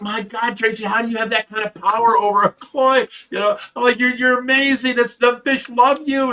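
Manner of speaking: high, gushing flattery, slowing at the end; mock awe. Husband flattering wife about her koi power, high gush. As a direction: lay the praise on thick.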